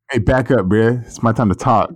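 playful put-on black voice. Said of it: "in your black voice".

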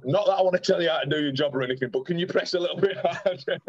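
high-pitched, hesitant mock politeness; mock tactful plea. Patient asking young copper to press harder, mock tactful plea. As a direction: pitch it up as a careful request.

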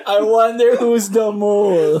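high, loud hammed-up character voice; mock movie character. Parodying the out-of-place actor for laughs, hammed-up loud voice. Acting the miscast actor in the film.

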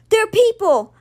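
loud, high startled shout; Alex shouting to everyone that the objects are people. A narrator's reading. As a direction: call out the discovery at full voice. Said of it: "Alex shouted".

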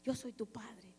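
slow, soft and close, deep inside; inner voice of God. Retold or imitated. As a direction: tell her gently she has a father. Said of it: "me dijo en mi espíritu muy adentro". (voz interior, suave y lenta)

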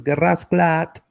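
slow imitation of a Jamaican accent. Shown as a demonstration. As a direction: draw it out like a Jamaican. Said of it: "su acento".

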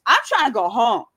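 mock desperate yell; loud pleading yell. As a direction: shout the plea to go home. Quoting friend yelling.

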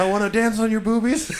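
high, goofy mock croon; mocking the bath-time vegan; mocking the singer. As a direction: parody him like a creepy lovestruck guy.

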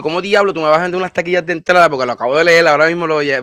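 loud, fast angry complaining; angry rant. Real, not acted. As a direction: vent the fury about the fees. Ranting about lost ticket fees.

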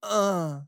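high, loud human "uh"; human-voiced cat moan. Shown as a demonstration. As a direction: demonstrate a human groan coming from a cat. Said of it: "like a human voice though".

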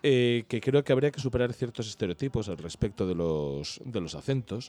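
turning a little serious, measured; slightly subdued, earnest and hesitant; un poco serio. Real, not acted. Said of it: "me voy a poner un poquito serio". (en tono algo serio y pausado)

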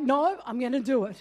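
retold fuming insistence; a hint of boiling temper; steaming. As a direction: steam coming out, mildly acted. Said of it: "the steam's coming out".

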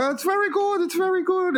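put-on very high caricatured Asian accent; high-pitched mock Asian shopkeeper; imitated Asian accent. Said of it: "I can do this 'cause my grandmother's Asian".

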